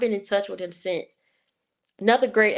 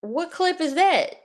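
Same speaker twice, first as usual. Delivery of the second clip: surprised question; 10 semitones higher than usual. Real, not acted. Surprised by the clip mention.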